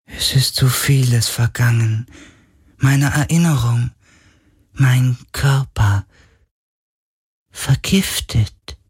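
hohe, langsame, schwache Geisterstimme; klagender Geist. Acted. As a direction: wie ein sterbender Geist klagen. Geist klagt. (hohe, traurige Geisterstimme)

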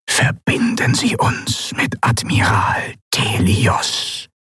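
slow, firm commanding voice; a captain's slow command; commanding order. A narrator's reading. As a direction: give the order with authority. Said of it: "befahl er".

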